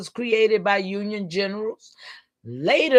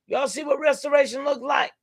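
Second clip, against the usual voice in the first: rousing call out; 4 semitones higher than usual. Real, not acted. Calling out to the audience.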